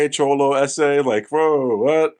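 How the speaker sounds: a hint of a put-on Spanish accent; bad fake Spanish accent. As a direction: lightly mimic a bad Latino gang accent. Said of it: "Spanish accent is terrible".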